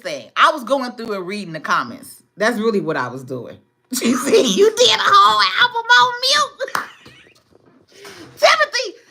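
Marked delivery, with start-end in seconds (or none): 4.0-6.9 loud and high, cracking up through the words; laughing shout. Real, not acted. Reading comment while cracking up. 8.4-9.0 high, squealing through laughter; can't breathe from laughing at Timothy's joke. Real, not acted. Cracking up at a comment.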